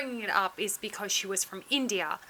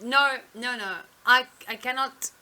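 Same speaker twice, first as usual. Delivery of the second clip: louder interrupting retold refusal; cutting-in refusal; 3 semitones higher, 7 dB louder than usual. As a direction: imitate a doctor cutting someone off. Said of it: "cut them off immediately and said".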